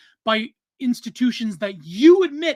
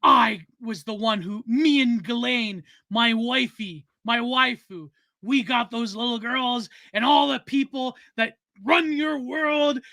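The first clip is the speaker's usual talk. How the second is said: villain voice. Pretend. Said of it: "with a villain voice and said".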